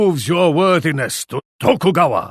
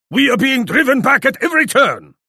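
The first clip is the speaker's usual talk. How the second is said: higher and fast, urgent; alarmed; 8 semitones higher, faster than usual. Acted. Warlord reporting his army being pushed back, fast alarmed urgency. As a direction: blurt it out in rising alarm.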